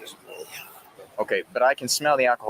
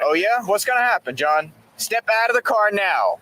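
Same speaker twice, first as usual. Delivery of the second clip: calm turning angry; 6 semitones higher than usual. Real, not acted. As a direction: lose patience, order firmly. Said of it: "officer escalating at resisting driver".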